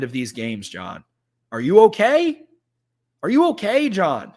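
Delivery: pleading in disbelief, pitch way up; exasperated. Real, not acted. Exasperated rant at coach.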